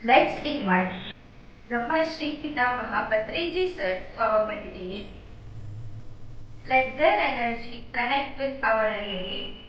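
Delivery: calm, measured meditation guidance; unhurried meditation leader's voice; guided meditation. Real, not acted. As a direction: gently lead them through meditation with long pauses.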